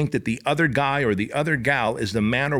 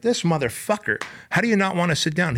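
raised, fast disbelieving outburst; incredulous; 6 semitones higher than usual. Retold or imitated. Coach to recruit who won't sit, amazed and exasperated. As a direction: throw up your hands in amazed disbelief. Exasperated at guy refusing rest.

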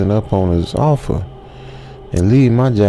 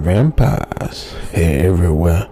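put-on grave old hunter. Old man warning the narrator about vampires, slow and grave. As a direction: lay the warning down slowly and darkly. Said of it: "the old man said".

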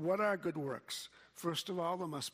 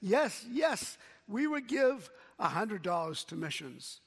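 put-on kids cheering; 3 semitones higher, 4 dB louder than usual. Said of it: "And the kids said".

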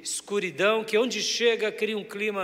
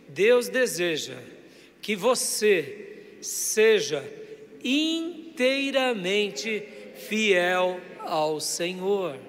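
very slow, drawn-out phrases; emphatic call-and-repeat; much slower than usual. Shown as a demonstration. Preacher leading the congregation to tell their neighbour, slow and emphatic. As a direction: stretch each phrase so the congregation can repeat it.

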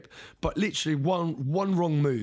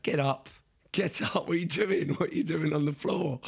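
higher, lightly voiced fiancée; fiancée urging; 3 semitones higher than usual. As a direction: mimic her impatient push.

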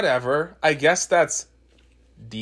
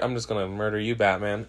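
Darkseid voice; 5 semitones lower, 7 dB quieter than usual. Retold or imitated. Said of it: "And then Darkseid's like".

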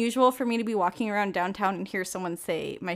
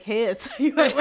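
laughing mockery; 3 dB louder than usual. Mocking the boy's awkward message.

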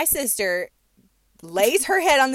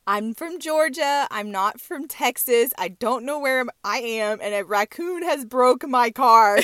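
mock panicked caller; 4 semitones higher, 4 dB louder than usual. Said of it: "her nine one one call was like".

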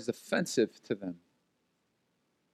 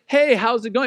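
raised, breezy mock hello; friendly greeting; 5 semitones higher, 4 dB louder than usual. Shown as a demonstration. The welcome they didn't give, friendly and lifted. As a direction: demonstrate an open, chatty greeting. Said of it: "they didn't say".

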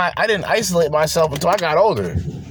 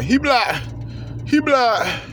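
mocking echo; 8 semitones higher, slower than usual. Mocking phrase, high.

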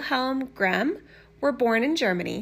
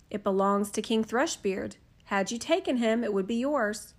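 soft, even fairy-tale reading; gentle storyteller voice; storybook narration; 3 dB quieter than usual. A narrator's reading. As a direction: read it like a bedtime story. Reads a fairy tale aloud.

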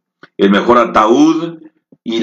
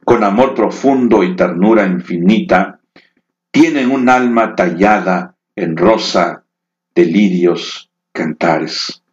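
recitación de poema. Acted. Poema a la madre. (recitado tierno y pausado)

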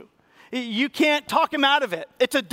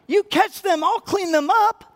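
emphatic; 8 semitones higher, 5 dB louder, slower than usual. Shown as a demonstration. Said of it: "repeated line, louder".

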